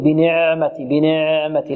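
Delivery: بنعمتي with ع held like a long vowel; over-stretched ayn. Retold or imitated. Teacher mimicking readers who stretch the ayn, drawn-out ع. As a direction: imitate the mistake, dragging the ع in بنعمتي. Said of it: "يأتي بها مثل الحرف المد".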